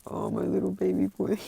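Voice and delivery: put-on high-pitched cooing over a child; doting parent. Rei sees her son in bed, doting. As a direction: gush over your baby in a high voice.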